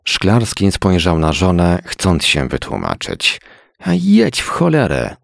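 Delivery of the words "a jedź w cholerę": wysoko, z urazą; zirytowana żona. Acted. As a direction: odpraw męża ze złością. Wife annoyed at leaving husband. (zirytowana żona)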